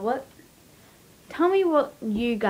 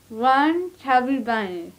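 mouth full; slower than usual. Real, not acted. First marshmallow in mouth.

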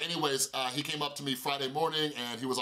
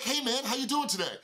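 cheery guy; 9 semitones higher than usual. Retold or imitated. Voicing a cheerful stranger greeting.

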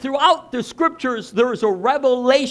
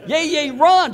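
louder, higher mock yell; imitated child's yelling; 6 semitones higher, 4 dB louder than usual. Granddaughter urging grandpa to run along, imitated yelling. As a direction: holler like an eager little granddaughter. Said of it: "she starts yelling at me".

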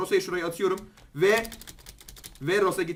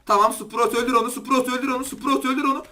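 urging a teammate; 4 semitones higher, 3 dB louder than usual. Real, not acted. Urging teammate Sprout to kill.

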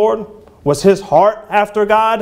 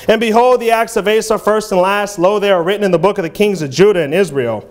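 measured King James reading voice; scripture reading. Acted. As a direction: read it out like a preacher quoting scripture. Reads the scripture passage.

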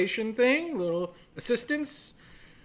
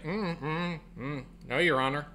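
mock innocent witness; 3 semitones lower, 7 dB quieter than usual. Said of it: "She's like".

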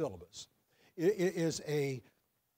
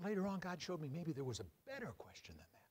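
whispered aside; 9 dB quieter than usual. Real, not acted. Pastor whispering an aside to his congregation. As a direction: drop to a whisper, confiding to the room.

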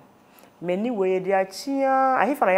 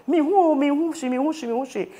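shouting; 8 semitones higher than usual. Retold or imitated. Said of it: "I was shouting on top of my voice".

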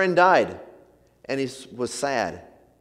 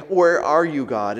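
a raised, pleading call to God; lament cry; 4 dB louder than usual. Retold or imitated. Preacher voicing a grieving believer, a raised lament cry. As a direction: cry it out, then drop on God.

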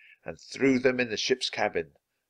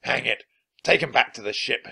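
shout; 3 semitones higher, 4 dB louder than usual. Acted. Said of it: "shouted Captain Bones".

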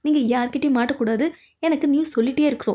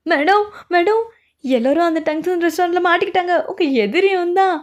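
urgent alarmed report; 3 semitones higher than usual. Acted. Breathless alarm, reporting news to madam.

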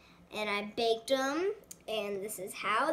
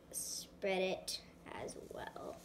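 whispering; 3 semitones lower, 10 dB quieter, much slower than usual. Real, not acted. Murmurs while working.

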